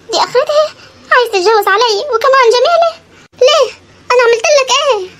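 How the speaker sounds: high, pleading, hurt questions; betrayed wife pleading; tearful lament. Acted. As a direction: beg to know why.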